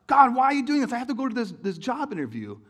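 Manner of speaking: high, loud frustrated plea to God; frustrated complaint. Retold or imitated. Driver complaining to God when car won't start, loud. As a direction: vent at God over the dead car.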